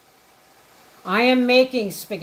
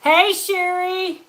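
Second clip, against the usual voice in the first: higher, slow drawn-out hello; excited greeting; 9 semitones higher, 3 dB louder, slower than usual. Real, not acted. Host spotting Sherry in chat, higher drawn-out call. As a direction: call the name out warmly.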